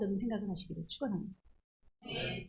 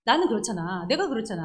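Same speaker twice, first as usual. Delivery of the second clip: loud stubborn me-me-me rant; a mock childish outburst; self-centred insisting; 4 dB louder than usual. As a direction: insist like it's all about you. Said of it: "할 때 일 차원이에요".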